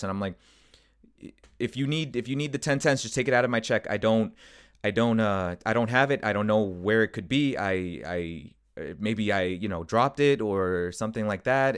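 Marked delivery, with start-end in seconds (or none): 1.6-11.8 re-enacted panicky, stumbling self-defence; flustered stuttering. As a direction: stammer through excuses, mildly panicked. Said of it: "I'm stuttering, and I'm trying to explain myself".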